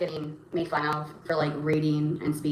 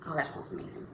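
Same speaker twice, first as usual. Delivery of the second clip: whispered aside; 10 dB quieter than usual. Real, not acted. Quiet aside about food.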